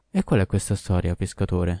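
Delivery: plain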